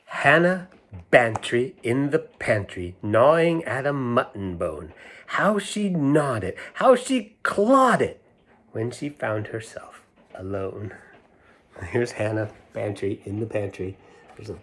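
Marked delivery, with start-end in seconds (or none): 0.1-10.9 sing-song nursery rhyme reading; lilting storybook recital. A narrator's reading. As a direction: read it like a rhyme to children. Reads rhyme aloud.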